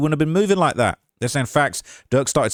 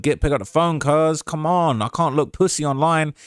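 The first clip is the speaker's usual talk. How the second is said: lightly imitated drawl, pitched higher; a rapper's voice; 4 semitones higher than usual. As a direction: plead it in a loose Savannah impression. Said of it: "if I can do the rapper's voice".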